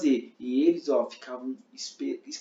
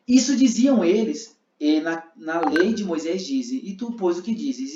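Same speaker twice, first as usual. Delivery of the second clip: loud, slow challenging voice; Pharisees questioning; 4 dB louder than usual. Shown as a demonstration. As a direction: press Jesus for an answer. Fariseus questionando Jesus. (fariseus cobrando resposta)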